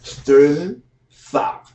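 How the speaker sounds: slow, thick-tongued name, rising; big tongue voice. Retold or imitated. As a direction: drag it out through a big tongue. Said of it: "the one with the big tongue".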